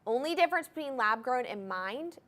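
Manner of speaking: ordinary talk, nothing marked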